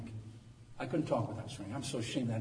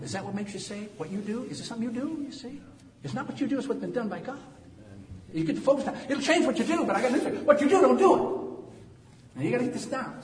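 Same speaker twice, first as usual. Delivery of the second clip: high-pitched pulpit questioning that builds louder; challenging preaching; 12 semitones higher, 6 dB louder than usual. Real, not acted. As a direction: challenge the congregation, climbing to a loud finish.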